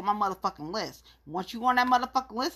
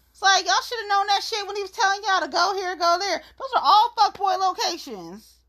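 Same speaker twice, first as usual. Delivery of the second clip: higher, laughing through the words, fast; amused higher rant through laughter; 9 semitones higher, 4 dB louder than usual. Real, not acted. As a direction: laugh while ranting at them.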